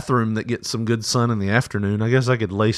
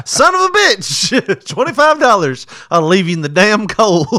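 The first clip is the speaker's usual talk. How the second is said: high, loud mock outrage; re-enacted yelling; 8 semitones higher, 4 dB louder than usual. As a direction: yell it hammed-up, drawing out the opening curse. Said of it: "like I yelled at you".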